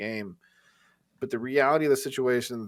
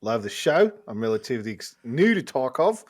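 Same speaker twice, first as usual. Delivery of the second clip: higher, louder Aussie voice; Australian accent; 7 semitones higher, 6 dB louder than usual. Acted. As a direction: read the listener's letter in a broad Australian accent. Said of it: "you do a fucking killer Australian accent".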